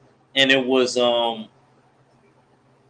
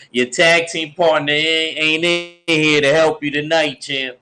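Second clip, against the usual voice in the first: higher mocking trash talk; taunting; 4 semitones higher than usual. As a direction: taunt the champ like a heel. Trash-talking the champ.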